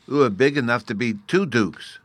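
a hint of a little fairy boy; small fairy child. A narrator's reading. Little fairy talking up to the big narrator, lightly childish. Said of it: "said the little creature".

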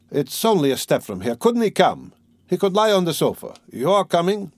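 put-on lifted, eager young friend pressing an invite; eager Razumihin. A narrator's reading. Razumihin urging Zosimov to his party, eagerly.

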